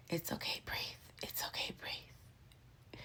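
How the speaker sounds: soft, near-whispered reassurance; soothing hush. Retold or imitated. Staff grab the panicking patient, soothing hush. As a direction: hush them down gently, voice dropping away.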